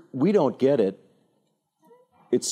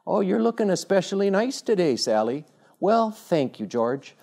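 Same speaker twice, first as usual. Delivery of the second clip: high-pitched, hammed-up sweethearts' exchange; polite porch courting; 7 semitones higher than usual. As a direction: act out a young suitor and his sweetheart. Acted courting on the front porch.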